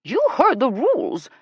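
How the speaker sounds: high, loud scolding; snapping. A narrator's reading. Ella reminding Jillian of the rules, loud snap. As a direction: snap it out, pitched right up. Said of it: "Ella snapped".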